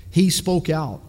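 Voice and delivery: loud, punched, falling to a firm stop; emphatic declaration. Real, not acted. Preacher to his congregation, declaring boldly. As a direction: hit it like a verdict. Preacher repeats line for weight.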